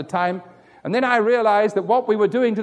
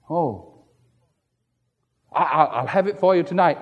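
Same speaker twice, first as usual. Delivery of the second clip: sheepish excuse; 4 semitones lower than usual. Retold or imitated. Debtor stammers a promise to the brother he owes, sheepish and laughing. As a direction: caught out and fumbling for a promise.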